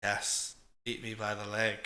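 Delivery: whispered, low and sinister; creepy whisper. Retold or imitated. Angela with murder-saucer eyes, whispering creepily. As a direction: hiss it as a murderous invitation. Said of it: "she's just like".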